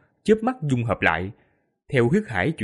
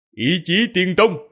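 cold snort; 6 semitones higher, 4 dB louder, slower than usual. Acted. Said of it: "Tô Minh hừ lạnh".

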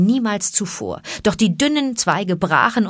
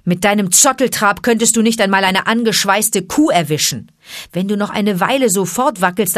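lightly voiced, a bit louder; scolding panther; 3 dB louder than usual. Panther scolding Baloo, a bit louder.

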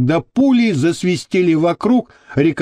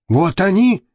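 higher-pitched, contained triumph; jubilant cry; 5 semitones higher than usual. A narrator's reading. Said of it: "ликующе закричал". (ликующий возглас)

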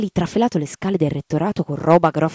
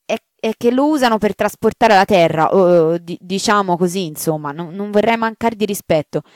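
higher, fumbling and apologetic; the maid afraid to tell the marchioness; hesitant maid; 4 semitones higher, 5 dB louder than usual. Acted. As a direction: stumble over how to say it. Maid explains awkwardly.

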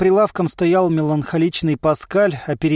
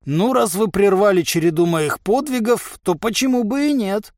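higher, mildly puzzled tone; surprised; 6 semitones higher than usual. A narrator's reading. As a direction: answer with lofty surprise. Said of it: "удивился нагибатор".

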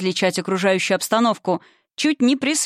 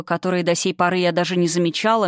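ordinary delivery, nothing marked

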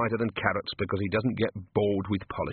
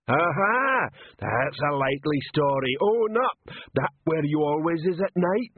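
slow, much higher bellowing troll; troll shouting; 5 semitones higher, slower than usual. Acted. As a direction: shout it at the lined-up staff. Troll interrogating.

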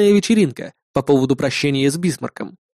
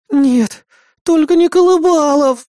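whimpering; 13 semitones higher, 5 dB louder, slower than usual. Acted. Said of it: "захныкала Хелен".

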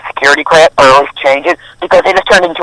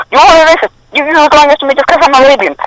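put-on high-pitched indignant Arab accent; hammed-up, much higher Arab-accented voice; 10 semitones higher than usual. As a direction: protest in a mock Arab accent. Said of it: "put in my accent".

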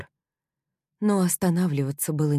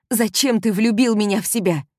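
higher, louder anguished demand; louder raging question with влюбил falling; furious accusation; 6 semitones higher, 6 dB louder than usual. Acted. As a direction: hurl the question at him. Heroine accuses, he answers.

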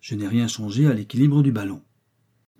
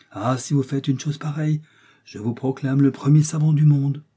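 raised pitch building to loud proclamation; admiring excitement; 4 semitones higher, 5 dB louder than usual. Acted. Joe hails his master as greatest scholar, excited. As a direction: proclaim it with growing volume.

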